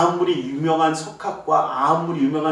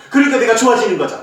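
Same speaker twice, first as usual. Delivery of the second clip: quick, higher, with laughter; laughing quote; 5 semitones higher, 7 dB louder, faster than usual. Retold or imitated. Pastor laughingly echoes the sick child's reasoning. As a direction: laugh as you echo the child's logic.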